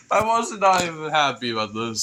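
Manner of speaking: real nervous laugh through words. Real, not acted. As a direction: laugh helplessly while talking. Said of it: "I don't know why I have to laugh".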